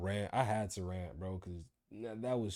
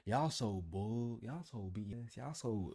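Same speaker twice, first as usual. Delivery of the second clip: fed up; 2 semitones lower, 6 dB quieter than usual. Retold or imitated. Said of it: "I was like".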